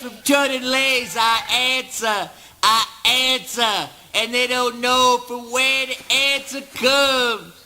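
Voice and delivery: high, ringing declamation; exalted proclaiming. Acted. Eugene boasting that he answers unseen, high exalted declaiming. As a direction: proclaim it high, with mounting fervour. Monologue builds to grand boast.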